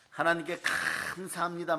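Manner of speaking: drawn-out, lightly acted cry of thanks; thankful praise. Believer filled with the Spirit thanking God, slow mock-fervent gratitude.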